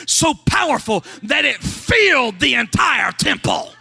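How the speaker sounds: lightly voiced Isaiah, rising to a shout; building awe. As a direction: let Isaiah's wonder swell to a cry. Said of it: "you know what Isaiah said".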